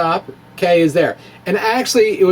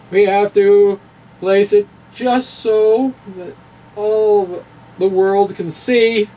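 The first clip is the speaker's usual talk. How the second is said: lifted, theatrical showman voice, pitched up; mock grand presenter; 4 semitones higher than usual. Presenting the clay model to all the world, in a hammed-up high showman voice. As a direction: unveil it like a pompous museum guide.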